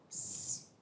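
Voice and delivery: unvoiced hiss for attention; a quick secret psst. Boy signalling his classmate with a hushed psst. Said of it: "ele fala assim".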